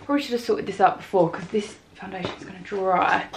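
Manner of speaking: breathless, winded speech; out of breath. Real, not acted. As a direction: talk while catching your breath. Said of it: "I'm out of breath now".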